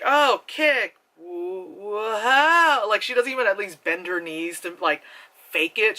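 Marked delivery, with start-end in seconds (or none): 0.0-2.9 mock Drew Barrymore. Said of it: "and she's like".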